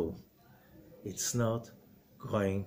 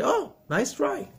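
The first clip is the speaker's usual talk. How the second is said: dismissive brush-off; 13 semitones higher than usual. Pretend. Answering Satan dismissively.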